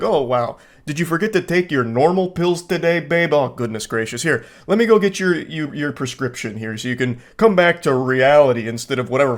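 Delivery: a hint of patronizing sweetness; mock condescending. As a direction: talk down to her like she's confused. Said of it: "gaslight her".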